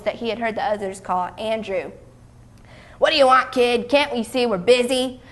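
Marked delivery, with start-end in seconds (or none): 3.0-5.2 gruff, louder brush-off; irritated, busy disciple's gruff voice. Acted. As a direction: snap at a pestering kid, gruffly. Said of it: "The gruff voice scared Amos almost into silence".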